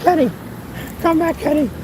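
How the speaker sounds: high, pleading mock wail; plaintive, hammed-up begging in short cries; mock crying out. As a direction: imitate desperate calls after someone leaving. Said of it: "Out the window crying, calling my name".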